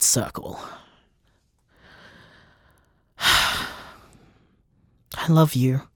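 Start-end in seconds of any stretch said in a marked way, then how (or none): 3.2-5.8 soft whispered love you; tender whisper. Real, not acted. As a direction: whisper it gently to your partner.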